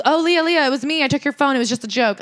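high, light placating voice; retold placating excuse. Mark placating Leah about her missing phone, light and appeasing. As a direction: imitate someone hastily smoothing things over.

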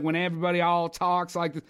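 mock Southern accent, lightly done; bad Southern accent. Shown as a demonstration. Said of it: "bad Southern accents".

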